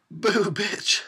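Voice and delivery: high teasing boo; light playful boo; mock jump scare again. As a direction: repeat the cheeky scare. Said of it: "I wish he had said that".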